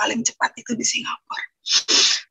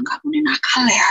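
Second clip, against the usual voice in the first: mild mock yell, raised and a little louder; retold scolding yell; 4 semitones higher, 5 dB louder than usual. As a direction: scold the naughty dog, lightly raised voice. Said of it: "saya teriak". (teriakan kecil menirukan omelan)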